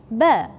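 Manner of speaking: Ba, gentle and released; soft Ba. Shown as a demonstration. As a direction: say Ba softly.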